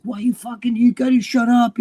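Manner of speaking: high-pitched imitation of a panicking friend; mock freak-out, voice jumping up. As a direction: retell it as a frantic scolding. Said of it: "freaking out".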